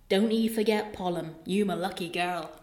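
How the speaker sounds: put-on West Country mum to her child; lightly acted West Country country mum; West Country accent. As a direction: speak in rustic West Country dialect. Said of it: "it's West Country".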